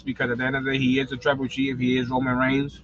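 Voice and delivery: talking while chewing; mouth full. Real, not acted. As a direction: speak through a mouthful of food. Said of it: "I don't mean to speak with my mouth full".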